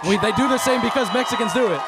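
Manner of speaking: insistent shout over the sign-off. Real, not acted.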